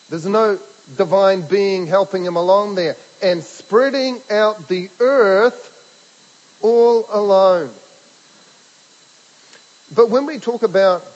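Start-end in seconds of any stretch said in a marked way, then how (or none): 3.2-7.7 slow, loud, higher voice of God declaring "by myself"; booming proclamation. Acted. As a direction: proclaim it like God speaking from on high. Preacher proclaims Isaiah's words of God.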